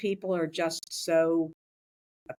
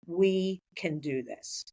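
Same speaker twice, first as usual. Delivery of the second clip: "We" stretched, slow and resolved; stress on We; slower than usual. Retold or imitated. Repeating it for the whole team, stress on "We". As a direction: say it slowly, weight on "We". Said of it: "then I started to think".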